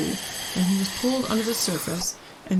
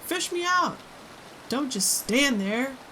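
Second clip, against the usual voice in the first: very high frantic demand; screaming at husband; 7 semitones higher than usual. A narrator's reading. Wife screams at her husband to rescue their son. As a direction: shriek at him to act. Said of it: "Missus Gloop screamed at Mister Gloop".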